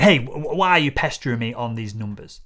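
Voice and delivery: mock aggressive, stammering start; a hammed-up pushy seller snapping back. Shown as a demonstration. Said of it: "rather than aggressively going".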